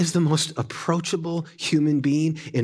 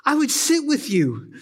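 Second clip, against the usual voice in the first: Jesus knocking at the door; 7 semitones higher than usual. Retold or imitated. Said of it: "he's out there saying".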